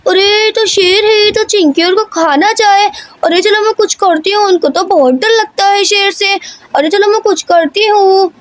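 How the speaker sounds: a hint of an alarmed mother making up her mind; lightly voiced worried mother. Mother figure spots the lion. (हल्की घबराई माँ की आवाज़)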